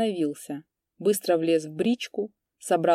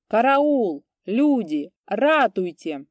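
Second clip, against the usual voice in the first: much louder, higher strained scream; strained scream for help; 4 semitones higher, 5 dB louder, slower than usual. A narrator's reading. Old priest shouts for help, slamming the door. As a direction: cry for help with all his might. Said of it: "закричал ещё громче и напряжённей".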